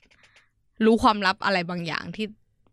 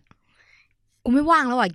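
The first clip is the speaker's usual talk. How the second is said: whispered quote; 5 semitones higher, 4 dB louder, much slower than usual. Retold or imitated. Retelling the friend's cancel, in a slow whisper. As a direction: breathe the friend's excuse out slowly.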